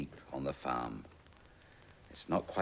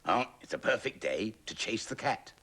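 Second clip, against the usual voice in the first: higher, louder goose voice; 7 semitones higher, 6 dB louder than usual. Acted. Goose about to chase the cat, higher and louder. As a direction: honk it out like a bossy goose. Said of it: "thought the goose".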